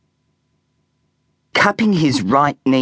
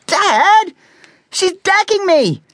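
put-on high, louder whiny kid's complaint; embarrassed protest; 4 dB louder, slower than usual. A narrator's reading. Boy protesting to his dad about his mum, high whine. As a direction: plead with dad to make her stop.

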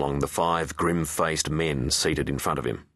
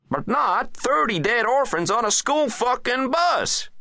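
ranting president; 10 semitones higher, 3 dB louder than usual. Acted. President demanding a military response, high and exasperated.

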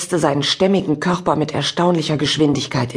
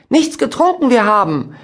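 Yoda; 8 semitones higher, 4 dB louder than usual. Acted. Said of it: "wie Yoda aus Krieg der Sterne".

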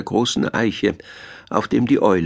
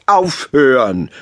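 slow, stretched call for order; 3 semitones higher, 4 dB louder, slower than usual. A narrator's reading. Town mouse tells the squabbling animals to stop, drawn-out call. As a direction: draw it out to break up the noise. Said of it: "rief die Stadtmaus".

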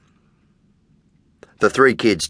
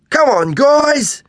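higher, louder call over the shoulder; boy calling friends to follow, louder and higher; 5 dB louder, slower than usual. A narrator's reading. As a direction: call back to friends behind you. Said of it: "he calls over his shoulder".

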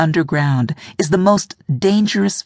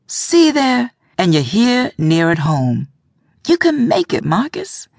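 trying hard to sound sure; reassuring, high and insistent; forced conviction; 5 semitones higher than usual. A narrator's reading. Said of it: "with as much conviction as she could".

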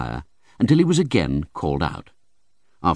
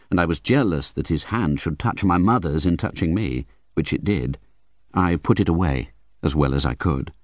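ordinary delivery

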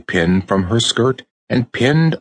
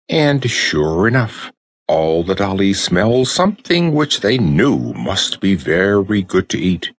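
plain reading voice

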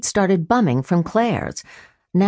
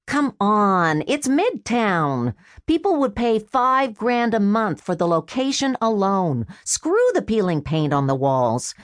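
a hint of a sheepish younger brother, pitched up; lightly voiced brother making excuses; Freddy's voice; 4 semitones higher than usual. Brother excusing his lost bet to his sister, lightly voiced sheepish.

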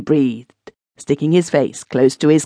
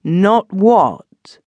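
higher, louder, pressing the word Not; fierce repeated demand; 7 semitones higher, 7 dB louder than usual. A narrator's reading. Benson demanding the truth, fiercer still. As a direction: push him for the answer. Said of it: "turning upon him fiercely".

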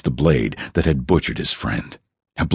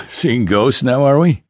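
a mocking dwarf, pitched up and louder at the end; laughing tease; 7 semitones higher, 3 dB louder than usual. A narrator's reading. Dwarf mocks Tom for seeing ghosts, teasing with a laugh. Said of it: "Bourbon laughed".

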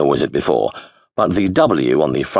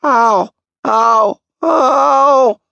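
mock pain; 6 dB louder, much slower than usual. A narrator's reading. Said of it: "half under his breath".

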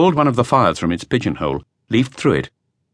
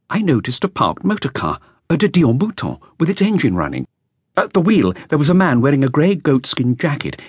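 put-on lightly raised, eager young man's voice; a nervous young witness reporting to police; a hint of an anxious young musician; young flautist; 5 semitones higher than usual. Flautist recounts the night.

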